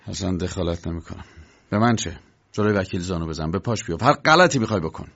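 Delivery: low, resentful washing of hands. Acted. K. giving up on Block's groveling, resentful. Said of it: "بعد با دلخوری گفت".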